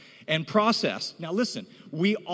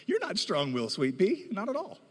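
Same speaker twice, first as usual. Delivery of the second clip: mock reassurance; 3 semitones higher than usual. Teasing a child in audience.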